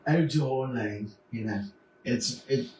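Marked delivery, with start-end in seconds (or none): 0.1-1.1 lightly Cockney, drawn out slowly; slow, playful touch of British; British accent. Shown as a demonstration. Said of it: "a British accent".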